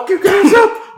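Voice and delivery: high pitched furious shout; angry shout. Acted. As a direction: yell the threat, way up high. In-character threat to the group.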